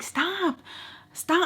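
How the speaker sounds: short, high-pitched stop; exasperated mock protest; retold angry protest. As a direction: act out pushing away his hand. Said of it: "I was really, really mad".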